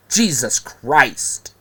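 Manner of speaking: slow, disgusted oath; exasperated. Real, not acted. Vlogger fed up with people saying bros, exasperated. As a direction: let it out slowly, fed up. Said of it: "Pisses me off".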